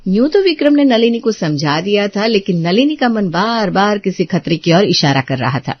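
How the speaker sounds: calm storyteller narration; story narration. A narrator's reading. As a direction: narrate the scene evenly. Narrator between dialogue scenes.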